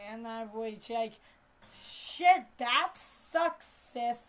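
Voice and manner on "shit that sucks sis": louder, higher burst of sympathy; sympathetic exclamation. Retold or imitated. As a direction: react big to bad news. Reacting to cousin's mishap.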